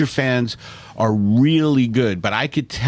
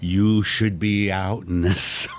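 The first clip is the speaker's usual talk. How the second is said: sun as angry parent; 4 semitones lower, 4 dB quieter than usual. Pretend. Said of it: "He's angry at you".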